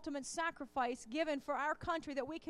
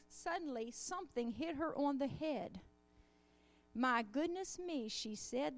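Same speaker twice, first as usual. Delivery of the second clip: storybook read-aloud with lightly voiced animals; reading a children's story. A narrator's reading. Reads children's tale in sermon.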